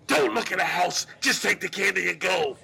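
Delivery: lightly voiced monster giving orders; mock-menacing, forceful order; scary command. Hidden host warning off a nosy kid, mock menace.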